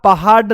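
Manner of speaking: पहाड़ mispronounced as पहाड, with a stop; hard ड in पहाड़. Shown as a demonstration. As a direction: end पहाड़ on a hard ड, no flap. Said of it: "ऐसे तो कभी नहीं बोलते". (पहाड़ को बिना नुक्ते के पहाड बोलें)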